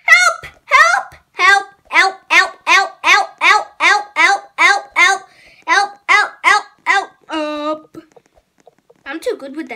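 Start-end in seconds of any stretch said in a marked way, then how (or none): 0.0-8.0 being chased. Real, not acted.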